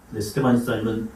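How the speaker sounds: normal talking voice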